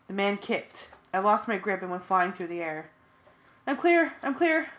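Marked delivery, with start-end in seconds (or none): 3.7-4.7 very high loud relieved call. A narrator's reading. Friend calls out she escaped, high loud relief. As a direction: shout the good news. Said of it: "Cassie called".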